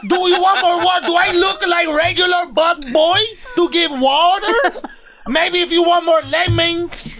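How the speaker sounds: head busboy character. Retold or imitated. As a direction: boast like the self-appointed head busboy.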